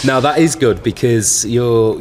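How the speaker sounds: giggling through the words; laughing while being tickled. Real, not acted. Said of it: "What are you laughing at?".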